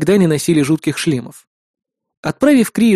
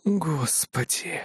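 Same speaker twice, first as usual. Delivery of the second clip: slow, much softer exasperated sigh of a word; embarrassed groan; 12 dB quieter, much slower than usual. A narrator's reading. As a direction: mutter it in secondhand shame. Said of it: "сбавить уровень испанского стыда".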